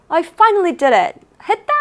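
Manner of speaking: mild, high-pitched mock scream; retold scream. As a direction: imitate a player's triumphant cry, half-shouted. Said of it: "소리 질러요". (기뻐 소리치는 흉내를 살짝 높게)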